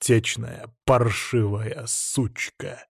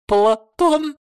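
high, loud panicked cry; shrill panicked name; 5 dB louder than usual. A narrator's reading. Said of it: "с нотками паники".

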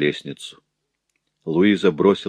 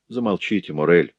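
sadly. Acted. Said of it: "печально сказал ему Рудольф".

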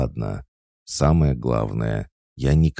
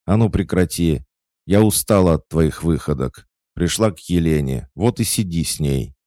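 loud, higher angry scolding; 6 semitones higher, 5 dB louder than usual. Acted. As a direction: tell her off, fed up. Mother scolds daughter angrily. (гневно отчитывая дочь)

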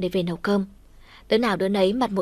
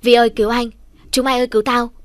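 loud, higher cry for help; panicked yell for help; 3 semitones higher, 7 dB louder, faster than usual. Acted. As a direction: shout for rescue while pinned down. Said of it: "Hốt quá hét ầm lên". (tiếng hét cầu cứu hoảng loạn)

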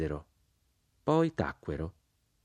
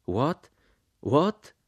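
rising cries that climb higher and louder; outraged shout; 8 semitones higher, 3 dB louder than usual. A narrator's reading. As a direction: fire it back in shocked disbelief. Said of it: "gridarono tutti intorno alla tavola".

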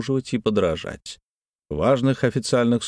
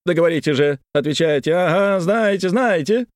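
high, insistent pressing; pestering; 8 semitones higher, 3 dB louder than usual. Acted. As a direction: demand it, needling. Kolomeitsev pressing Paklin.

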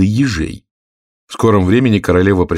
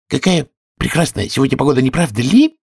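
timid small talk, pitched higher; 5 semitones higher than usual. A narrator's reading. White rabbit nervously makes small talk with Alice, timidly. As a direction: venture it timidly, voice lifting. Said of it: "робко произнёс кто-то".

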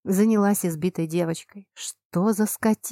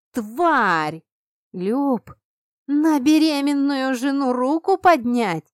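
higher and louder, furious; furious outrage; 7 semitones higher, 5 dB louder, slower than usual. A narrator's reading. Heroine confronts the wife-beating husband, furious outrage. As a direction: hurl it at him in outrage.

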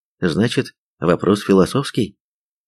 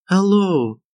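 high, drawn-out absent-minded hello; higher-voiced girl, mind elsewhere; 11 semitones higher than usual. A narrator's reading. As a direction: answer the phone vaguely, pitched high. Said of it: "рассеянно отозвалась Иришка".

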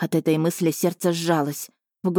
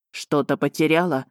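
lightly lowered, mocking dragon voice; mocking sneer; 2 semitones lower than usual. Dragon taunting his runaway wife, mocking sneer. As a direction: sneer it like a spiteful husband. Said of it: "издевательски осклабился он".

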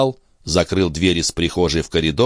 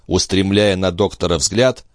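ordinary delivery, nothing marked

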